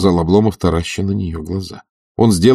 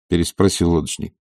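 ordinary delivery, nothing marked

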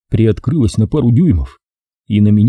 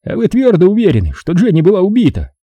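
courteous; 9 semitones higher, 3 dB louder than usual. Acted. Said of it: "Тон его был предельно любезен".

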